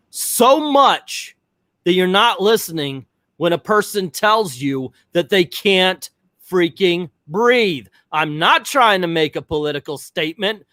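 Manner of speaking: reliving the frustration with a laugh at the end; retold outburst. Telling staff they politicized masks, heated retold rant.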